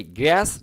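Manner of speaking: গ্রাস said directly, without care for the blend; pronunciation to avoid. Shown as a demonstration. Teacher warns students off this, গ্রাস said too directly. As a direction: say গ্রাস straight off. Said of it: "direct বলবেন না".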